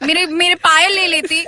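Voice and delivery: fast, high, loud mocking rant through laughter; rapid laughing rant. Real, not acted. Mocking the script to friends, fast laughing rant. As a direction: rattle it off laughing.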